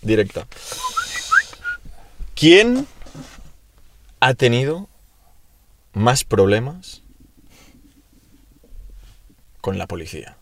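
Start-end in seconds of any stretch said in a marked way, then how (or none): 2.3-10.4 suspenseful question reveal. Acted. Host reveals the last question, suspenseful and halting. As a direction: draw out each chunk like a quizmaster.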